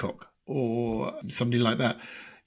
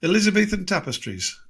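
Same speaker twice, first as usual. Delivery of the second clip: light adenoidal presenter voice, pitched up; Melvyn Bragg impression; 5 semitones higher than usual. Radio host opening the programme, lightly adenoidal. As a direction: announce the show like the host. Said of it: "So he's got that adenoidal voice".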